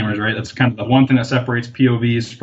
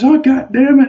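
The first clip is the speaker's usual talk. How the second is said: loud, high-pitched retold curse; mock exasperated outburst; 13 semitones higher, 5 dB louder than usual. Van owner curses at the park worker, mock exasperated anger. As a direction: imitate a man blowing up, voice leaping high.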